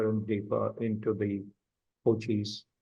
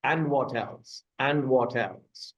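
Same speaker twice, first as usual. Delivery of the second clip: repeated coaching question; slower than usual. Shown as a demonstration. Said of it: "use it at least three times".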